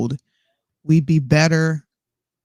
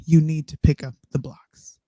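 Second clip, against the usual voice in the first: whispered demand; 4 dB quieter than usual. Shown as a demonstration. Reading example phrase.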